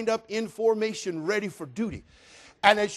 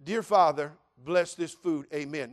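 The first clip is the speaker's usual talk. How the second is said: sincere prayer; 2 semitones lower than usual. Shown as a demonstration. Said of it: "Now that's short, sweet, and sincere".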